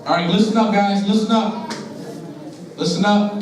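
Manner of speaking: calling to order. Real, not acted. Calling the room to order after chatter.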